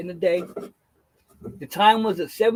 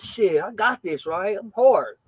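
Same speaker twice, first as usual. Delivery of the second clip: acting tough; slower than usual. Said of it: "I'm acting hard like".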